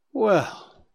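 genteel tone. Acted. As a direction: put on fake courtesy to mock him. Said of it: "he said in a genteel tone".

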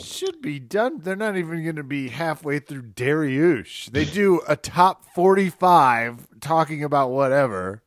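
high, incredulous mock rant; mock yelling. Cohost pretending to yell at Kevin about timing, mock rant. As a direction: rant at the friend in disbelief. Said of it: "I'm yelling at your fr".

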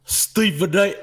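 stuffy nasal pundit voice; congested Big Perk voice; Kendrick Perkins impression. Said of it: "That's my Big Perk".

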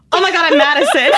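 high, mock-excited squeal; hammed-up excited retelling; gushing fake introduction. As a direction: blurt it high with a laugh. Acted overeager fake-name introduction.

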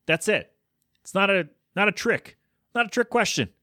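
high, exasperated insistence. Real, not acted. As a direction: pitch up in disbelief. Exasperated rant at guests.

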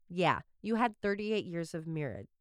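talking right after biting tongue; tongue sore from a bite; just bit tongue. Real, not acted. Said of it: "Ow, I bit my tongue".

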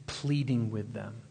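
slow, soft and low; gentle, meek. Real, not acted. Preacher describing Jesus pleading with them, gently. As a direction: ease off into a tender hush.

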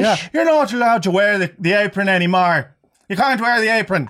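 high Irish scolding; mock Irish accent. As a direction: lay down the rules in hammed-up Irish. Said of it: "so to do the accent".

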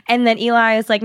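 ordinary talk, nothing marked

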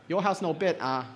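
put-on a light Singaporean accent, mum refusing; mild Singlish mum saying no. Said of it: "I need a Singaporean to say that".

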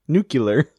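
"Nuclear" as NOO-kyuh-ler, rising; variant pronunciation. Shown as a demonstration. Friend testing the variant "Nuclear", NOO-kyuh-ler. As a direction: try out "Nuclear" with a yuh before the L. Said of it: "acceptable pronunciation of the word".

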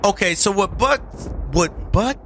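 slow, deliberate setup of butt cheek tight seal; slow explanation. Shown as a demonstration. Host explaining his phrase to viewers, slow. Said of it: "explain to the people what butt cheek tight".

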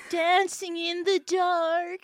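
drawn-out, dreamy slowed singing; slowed reverb voice. Pretend. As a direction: stretch every word like a slowed TikTok song. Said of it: "let's slow it down and reverb it".

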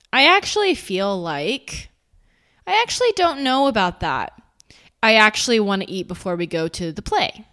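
surprised. Shown as a demonstration. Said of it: "Actually sounds like you're surprised by your own opinion".

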